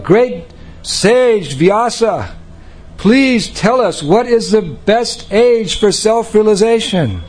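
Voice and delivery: high, slow, imploring call up to the sage. Retold or imitated. Sages calling up to Vyasadeva, high and pleading. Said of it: "they called out".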